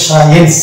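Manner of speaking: "সায়েন্স" starting on a plain S sound; silent C. Shown as a demonstration. Teacher shows how it is pronounced, "সায়েন্স" with silent C. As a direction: sound out "সায়েন্স" without any K. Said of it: "দিয়ে উচ্চারণ হয়ে যাবে".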